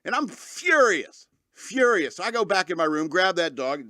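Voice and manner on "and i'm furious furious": retold fury. Acting out his retold fury.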